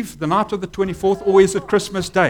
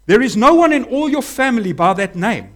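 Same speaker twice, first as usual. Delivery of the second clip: high, louder flustered protest; incredulous relatives; 6 semitones higher, 5 dB louder than usual. Retold or imitated. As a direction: sputter in disbelief.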